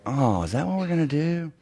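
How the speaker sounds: soft, mock-deflated question; disappointed. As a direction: let down, imitating a disappointed client. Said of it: "they look very disappointed".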